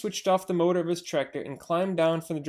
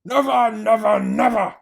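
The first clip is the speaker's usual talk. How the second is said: higher, louder insistent cries; cried out; 5 semitones higher, 8 dB louder than usual. Acted. Bogus vowing to the others, loud insistent cries. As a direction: pound each never. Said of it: "cried Bogus".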